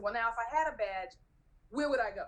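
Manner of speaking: retold hopeful question to a guard; lightly acted bargaining question; reasoning plea. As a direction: try reasoning with the guard, measured. Retold argument, first try at asking.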